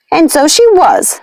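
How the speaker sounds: a high, slow witch's reply. A narrator's reading. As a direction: answer as the proud witch. Lucinda answers Nanny.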